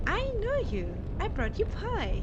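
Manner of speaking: high, loud, slow, whiny little creature; big-eyed hungry ghost pleading for food; hungry monster voice. Acted. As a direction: beg like a starving spirit. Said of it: "I don't know why I'm saying it like that".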